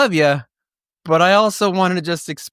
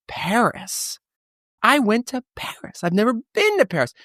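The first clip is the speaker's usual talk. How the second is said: excited; 7 semitones higher than usual. Real, not acted. Host thrilled about visiting Paris.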